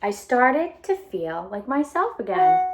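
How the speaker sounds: bright storybook read-aloud voice; animated picture book reading; reading to children. A narrator's reading. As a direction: read it out to a class of kids.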